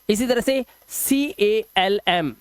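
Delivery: "सी ए एल एम" spelled out slowly, letter by letter; spelling aloud. Shown as a demonstration. Teacher spells a word for students, slowly. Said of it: "हम बोलते हैं काम".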